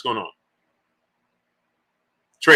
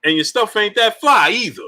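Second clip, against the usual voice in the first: higher-pitched sitcom comeback; imitated moving guy; 7 semitones higher than usual. Moving guy answering Martin, imitated in higher voice. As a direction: act out the mover, pitched up. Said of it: "he's like".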